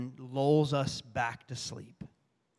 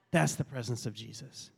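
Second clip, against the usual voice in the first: lower, softer solemn repeat; hushed reverence; 4 semitones lower, 5 dB quieter than usual. Real, not acted. Pastor answering the onlookers about Jesus, hushed and reverent. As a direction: let it settle low and soft.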